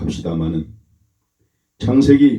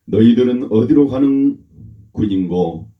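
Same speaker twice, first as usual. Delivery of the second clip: lightly mimicked loud challenge, higher at first; retold commanding call, louder at the start; 4 semitones higher, 4 dB louder than usual. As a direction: challenge the strangers in a raised voice, then ease off. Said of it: "예서가 큰 소리로 말합니다".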